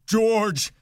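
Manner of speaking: very high, loud wail for help; panicked, drawn-out call; terrified cry. A narrator's reading. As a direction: cry out in terror to your protector. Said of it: "he cried".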